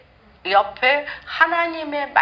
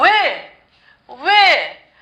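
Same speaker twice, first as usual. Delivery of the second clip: anguished cry; 3 semitones higher, 4 dB louder, much slower than usual. Acted. Hannah crying out to God.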